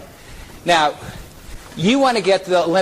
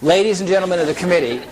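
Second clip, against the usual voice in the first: said through a smile with a little laugh, quicker; smiling; faster than usual. Shown as a demonstration. Vancouver's Mark charming the committee with a broad smile. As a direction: beam at them as you say it.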